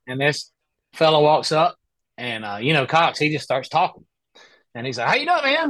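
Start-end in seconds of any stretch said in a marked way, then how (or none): 5.1-5.7 imitating Cox. Cox voiced in story.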